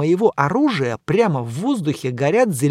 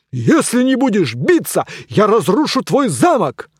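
loud, higher blustering threat; threatening knight; 6 semitones higher, 4 dB louder than usual. Acted. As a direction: bluster to scare him.

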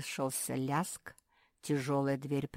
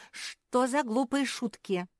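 drawn-out, high and loud outrage; angry cry; 8 semitones higher, 5 dB louder, slower than usual. A narrator's reading. Pug waking to a nasty prank, angry cry. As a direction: cry out in a fit of anger. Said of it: "ощутила приступ злости и закричала".

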